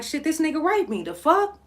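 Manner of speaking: retold yell. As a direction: shout it out in disbelief. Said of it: "I'm going crazy".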